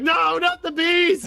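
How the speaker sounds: panicked Nicolas Cage. Retold or imitated. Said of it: "he's like".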